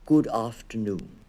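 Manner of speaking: a small, clear, polite little bear voice; lightly voiced little bear, slow and courteous. A narrator's reading. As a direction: greet them slowly and politely, like a tiny bear. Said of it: "it said in a small, clear voice".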